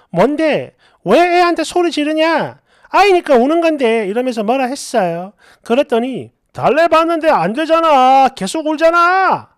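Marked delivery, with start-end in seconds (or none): 0.1-4.1 louder, higher, retold angry protest; angry retort. Wife angrily confronting husband for yelling at the baby. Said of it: "너무 화가 나서". 6.5-9.5 louder, higher, whiny complaint; irritated drunk husband. Retold or imitated. Drunk husband whining back at his wife.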